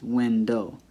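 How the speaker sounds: WINDOW split into WIN and doh; syllable by syllable. Shown as a demonstration. Teacher showing two spaces, window broken in two. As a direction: say window as two separate pieces. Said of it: "now you have two spaces".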